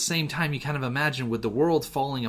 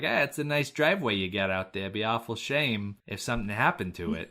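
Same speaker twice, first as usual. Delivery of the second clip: put-on light Jersey mobster accent; a hint of a New Jersey tough guy. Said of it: "giving this Australian character a Jersey accent".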